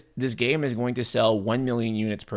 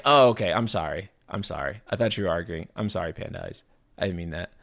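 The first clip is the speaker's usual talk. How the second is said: apologetic; 3 semitones lower than usual. Real, not acted. Apologizing to chatter after misreading.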